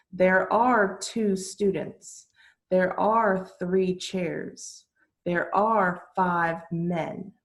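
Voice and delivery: slow, clear model sentences; slow teacher model. Shown as a demonstration. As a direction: model each word slowly for learners. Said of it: "teacher modelling there are".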